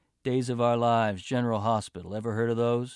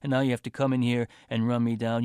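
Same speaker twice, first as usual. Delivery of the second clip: fast, louder sarcastic jabs; sarcastic rant; 3 dB louder than usual. Acted. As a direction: needle her with growing anger. Boyfriend's sarcastic resentful rant.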